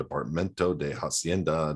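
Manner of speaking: Departamento de Hacienda said the Spanish way, trying to roll the R's; attempting Spanish "Departamento de Hacienda"; Spanish pronunciation attempt. Shown as a demonstration. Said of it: "How did I do?".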